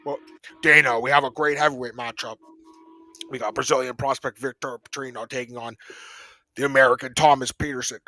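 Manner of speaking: lightly voiced fight promoter announcing the bout; a hint of an MC hyping a matchup; mock promoter pitch, barely off his own voice; Mick Maynard voice. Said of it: "I'm doing the Mick voice".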